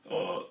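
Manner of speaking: soft, short audible breath sound; Mueller maneuver breath. Shown as a demonstration. Singing teacher looks for the breath stop, soft "uh" breath. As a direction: draw a short hushed breath. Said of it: "back to the Miller maneuver".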